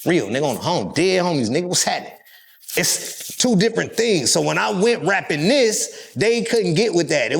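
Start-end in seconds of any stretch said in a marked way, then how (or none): 0.0-2.1 LA gang talk. Retold or imitated. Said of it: "Nigga from L A gonna be like".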